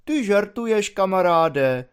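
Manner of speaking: friendliest tone. Acted. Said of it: "takovým nejpřátelštějším tónem".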